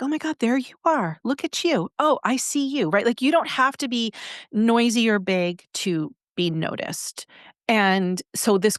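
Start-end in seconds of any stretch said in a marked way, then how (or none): 0.0-2.9 warm recognition. Retold or imitated. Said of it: "you're like".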